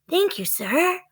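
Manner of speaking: put-on high, polite girl's thanks; polite little girl. Annie thanking the knight, high and polite.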